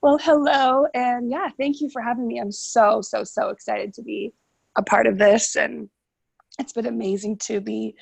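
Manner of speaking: hoarse, sick voice; raspy whisper. Real, not acted. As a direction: talk through a rough flu throat. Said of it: "sorry, excuse my voice".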